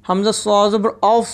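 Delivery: "औफ" as a heavy, full-mouthed "aws"; full, heavy letter. Shown as a demonstration. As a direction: fill out "औफ" with an emphatic s sound. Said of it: "इसको हम पुर पढ़ेंगे".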